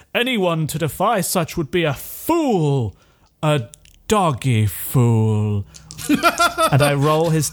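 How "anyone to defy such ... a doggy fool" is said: put-on old wise man voice, drawn-out word fool. Voicing the old philosopher finishing his first argument at the forum: Aegidius voice. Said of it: "and there is just like this badass philosopher comes in with this massive long beard, four whole beard. I roll points. My eyes. It is someone. He is more like age idiot. Indeed, he is very old, very well known".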